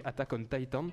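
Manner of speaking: Attack on Titan in a light English accent. Shown as a demonstration. Host gives the English title with an English accent. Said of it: "désolé pour mon accent".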